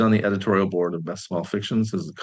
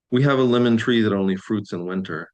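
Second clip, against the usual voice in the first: measured poem reading, each line falling away; poetry reading. Acted. Poet reads own poem to online audience, measured recital. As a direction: read it as verse, pausing between lines.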